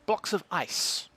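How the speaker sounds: talking while crunching ice. Real, not acted. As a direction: mouth full of ice. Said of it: "My apologies for the crunching".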